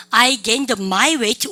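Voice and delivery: very slow, word by word, stressing my; wrong version said slowly. Shown as a demonstration. Teacher showing students the Konglish mistake, slow and emphatic. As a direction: drag out the wrong phrase so the error stands out. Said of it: "소유격이 있으면 군더더기고 콩글리시".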